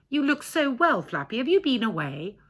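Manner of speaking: Hedda's voice. Acted.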